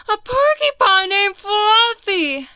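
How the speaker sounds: storybook rhino roaring with laughter; howling with laughter. Acted. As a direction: hoot it out, barely holding in a laugh. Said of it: "howled the rhinoceros".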